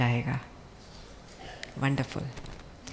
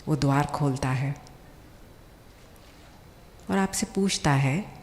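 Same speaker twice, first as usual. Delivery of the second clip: calm guided visualization with long pauses; guided meditation; 4 dB quieter than usual. Acted. Speaker guides seated doctors on an imagined journey home, guided meditation. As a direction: lead them gently, phrase by phrase, leaving long pauses.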